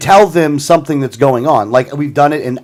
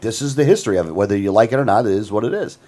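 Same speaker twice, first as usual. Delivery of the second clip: clinical; 4 semitones lower, 4 dB quieter than usual. Retold or imitated. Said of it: "in a very clinical way".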